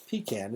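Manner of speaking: "pecan" said PEE-can; "pecan" with a long ee and a short a; pronunciation shown. Shown as a demonstration. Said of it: "they pronounce pecan and pecan".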